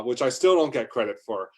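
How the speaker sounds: ordinary delivery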